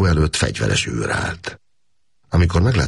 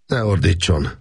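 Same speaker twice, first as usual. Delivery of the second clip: stern; 5 semitones higher than usual. Acted. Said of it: "mondta szigorúan Makos Gábor".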